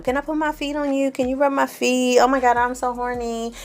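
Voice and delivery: high, soft flirty purr; flirty Corinne quote. Retold or imitated.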